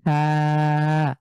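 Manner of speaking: থা with the tongue on the teeth, letting thin air out; thin tha. Shown as a demonstration. Teacher repeating থা with thin air for students. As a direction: breathe out lightly through থা. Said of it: "বাতাস বের হবে পাতলা করে".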